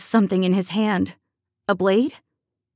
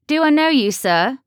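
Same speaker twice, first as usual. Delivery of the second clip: put-on wary young woman; 5 semitones higher, 4 dB louder than usual. A narrator's reading. Wary woman questions stranger.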